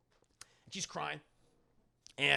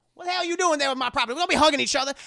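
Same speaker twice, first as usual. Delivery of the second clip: much higher, louder, fast angry outburst; furious yell; 10 semitones higher, 9 dB louder, much faster than usual. Retold or imitated. Master yells at two men hugging, furious. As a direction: storm in and shout them apart. Master angrily interrupts embrace.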